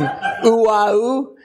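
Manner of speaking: high, weird, whiny backup singer; high whiny falsetto. Retold or imitated. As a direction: croon a whiny high ooh. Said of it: "the guy with the high, weird, whiny voice going".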